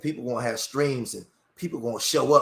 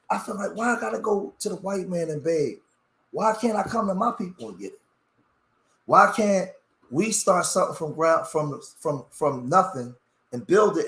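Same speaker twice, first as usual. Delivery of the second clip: emotional frustration; 4 semitones higher than usual. Real, not acted. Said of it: "when you see me get emotional".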